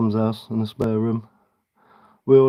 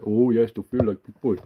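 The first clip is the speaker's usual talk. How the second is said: softer, put-on childish echo; softer patronising child voice; mock child voice; 3 semitones lower, 4 dB quieter than usual. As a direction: coo it back like to a toddler. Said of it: "my five-year-old writes me".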